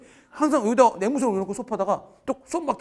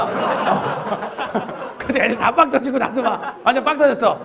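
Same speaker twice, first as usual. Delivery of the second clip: louder, laughing as he tells it; 5 semitones higher, 7 dB louder, much slower than usual. Real, not acted. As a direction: crack up at the memory. Recalling class bursting out laughing.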